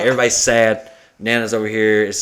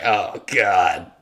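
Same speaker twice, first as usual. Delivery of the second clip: slow drawn-out oath; 5 semitones lower, much slower than usual. Retold or imitated.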